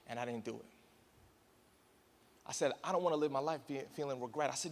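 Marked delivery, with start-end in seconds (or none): 2.8-4.5 inner resolve. Retold or imitated.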